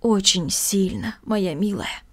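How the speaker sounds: put-on old aunt breaking grim news to the girl. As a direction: let the voice catch on the bad news. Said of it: "срывающимся голосом".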